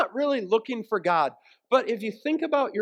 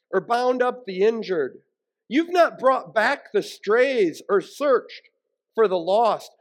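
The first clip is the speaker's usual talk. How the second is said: scripture reading. Acted. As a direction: proclaim the prophet's words with gravity. Reads Ezekiel scripture aloud.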